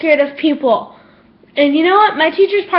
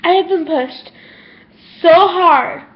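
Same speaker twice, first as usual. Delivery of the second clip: close to tears. Real, not acted. Telling viewers how hard she's been pushed, near tears. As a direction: hold back real tears and push the words out. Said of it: "I am about to cry".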